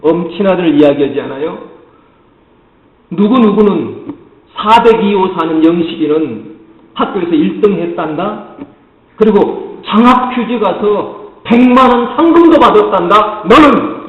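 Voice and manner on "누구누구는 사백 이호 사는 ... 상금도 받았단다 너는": put-on rising, louder scolding comparison to the neighbour's kid; nagging parent comparison. Parent at the dinner table lecturing a child, rising scold. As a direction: lecture the child, building to the pointed "너는?". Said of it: "훈계 또는 명령을".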